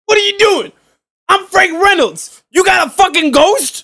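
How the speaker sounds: high-pitched, drawn-out character impression; Danny DeVito. Co-host mocking Frank Reynolds in the movie, high drawn-out impression. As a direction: pitch it way up and stretch the words. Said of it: "It's my Danny DeVito impression".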